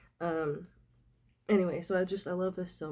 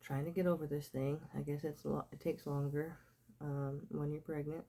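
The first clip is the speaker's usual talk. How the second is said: nasal, sick-sounding voice; stuffy nose; 2 semitones lower, 3 dB quieter than usual. Real, not acted. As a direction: talk through a blocked nose. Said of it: "nasally sounding, sick sounding voice".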